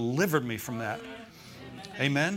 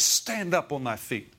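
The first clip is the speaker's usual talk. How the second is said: slow, drawn-out command, only a little louder; mildly raised voice, imitating a command; slower than usual. Preacher retelling Paul's command to be healed, loud command. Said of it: "he said with a loud voice".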